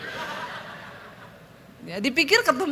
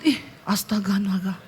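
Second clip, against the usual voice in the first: low whispered astonishment; hushed, half-whispered shock; shocked husband; 6 semitones lower, 5 dB quieter than usual. Retold or imitated. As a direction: imitate a stunned husband under the breath. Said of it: "Suami saya kaget".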